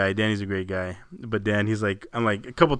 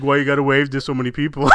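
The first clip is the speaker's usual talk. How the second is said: mock serious coworker; 6 dB louder than usual. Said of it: "he was all serious".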